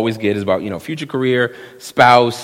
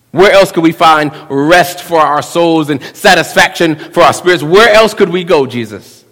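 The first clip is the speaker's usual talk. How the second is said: building plea; 4 dB louder than usual. Retold or imitated. Preacher voicing Peter's plea.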